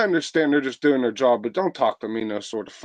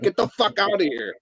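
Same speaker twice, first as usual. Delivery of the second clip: retold brush-off; 7 semitones higher than usual. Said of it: "I went from being nice to be like".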